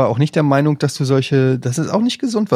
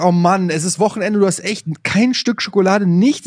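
a touch higher, mild grumble at a partner; retold grumbling; 4 semitones higher than usual. Complaining to his wife about no weekend chocolate, mildly grumbling. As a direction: replay your own moaning about missing snacks. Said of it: "ich motz meine Frau an".

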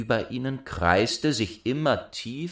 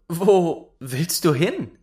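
put-on high, slow, louder girl's voice; calling young girl; 8 semitones higher, 5 dB louder, slower than usual. Rosenrot calls to the dwarf by the brook, high and girlish. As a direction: call out the question, high and drawn out.

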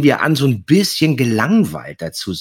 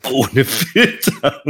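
laughing; 2 semitones higher, much slower than usual. Real, not acted. Laughing at memory.

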